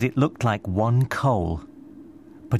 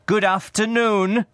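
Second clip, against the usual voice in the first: firm dismissal; 12 semitones higher, 3 dB louder than usual. A narrator's reading. Scrooge curtly dismisses nephew.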